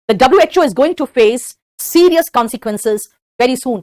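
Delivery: drawn out and deliberate; slow model sentence. Shown as a demonstration. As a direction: model it slowly. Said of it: "या तो very soon आगे लगा दे".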